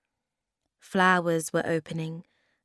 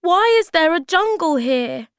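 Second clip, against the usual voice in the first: high, loud, amazed question; crying out; 11 semitones higher, 9 dB louder than usual. A narrator's reading. Moomin Troll bewildered by indoor jungle, loud cry. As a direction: call out in bewilderment. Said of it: "he cried".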